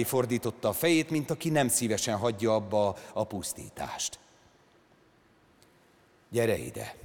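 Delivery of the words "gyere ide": soft, lower, gentle call. Acted. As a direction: coax the tiger back calmly. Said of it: "mondta neki szelíden". (szelíden hívva)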